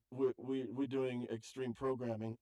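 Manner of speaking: light Russian accent, barely put on; a mild, half-hearted Russian accent on a coworker's words. Quoting a Russian coworker Yuri to the host, mild Russian accent. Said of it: "That's my best Russian accent".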